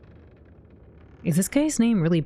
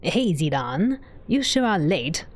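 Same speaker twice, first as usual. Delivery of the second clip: lightly voiced character with a slow finish; Cid voice; slower than usual. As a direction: rehearse the game line, drawing out the end. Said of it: "A Cid voice, maybe?".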